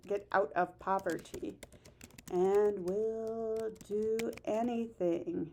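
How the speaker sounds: slow, spaced repeat for note-taking; teacher repeating the phrase slowly for notes; slow dictation. Shown as a demonstration. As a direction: read it out slowly so students can write.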